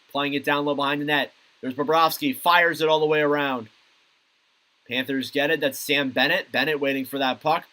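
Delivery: steady, running hockey commentary; live play-by-play. Real, not acted. Commentator calling Panthers against Bruins for viewers, live play-by-play. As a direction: call the play as it moves, lifting at the big moments.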